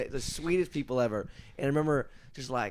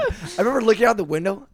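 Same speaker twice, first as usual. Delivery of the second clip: laughing; 8 semitones higher, 11 dB louder than usual. Real, not acted. Laughing while recalling the road trip.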